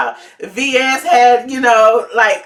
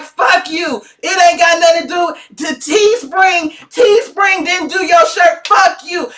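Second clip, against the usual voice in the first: higher, shouted mock cussing out; mock angry rant; 5 semitones higher than usual. Mocking a rude seller yelling at a buyer, hammed-up shout. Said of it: "I wouldn't be like".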